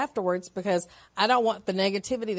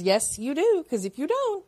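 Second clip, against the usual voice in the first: inner voice; 6 semitones higher than usual. Retold or imitated. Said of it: "you hear this voice and it says".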